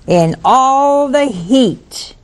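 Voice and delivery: very slow, high, hammed-up whine; slow and whining, like a worker milking his grievance; drawn-out complaint. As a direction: stretch each word out in mock suffering. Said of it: "here it comes".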